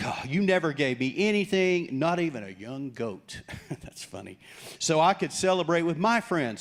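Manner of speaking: a light mock whine about the goat; half-hearted mock whining. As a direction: whine it like a spoiled brother. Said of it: "So he's whining".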